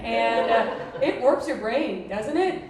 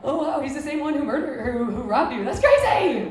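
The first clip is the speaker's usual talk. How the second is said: mock wow; 3 semitones higher, 6 dB louder than usual. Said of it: "You're dating a guy".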